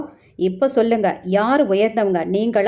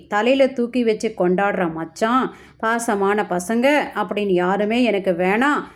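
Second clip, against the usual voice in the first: lightly acted sarcastic taunt; mildly jeer, as if mimicking big promises; mocking. Wife taunting her husband about his grand talk, mildly mocking. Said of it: "அப்படின்னு கிண்டலா பேச".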